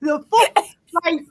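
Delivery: hammed-up Baltimore drawl on "full"; exaggerated Baltimore accent. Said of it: "you gotta be like".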